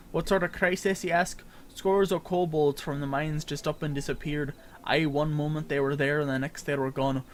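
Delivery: lightly voiced gruff pirate-Scottish sailor; NPC voice. Streamer reading an NPC's quest lines aloud, light pirate-Scottish lilt. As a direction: read the quest giver like an old sea dog, lightly.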